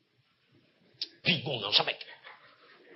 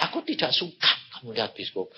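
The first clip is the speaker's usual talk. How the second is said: voice of God; 5 semitones lower, 5 dB quieter, faster than usual. Retold or imitated. God's voice retold in sermon.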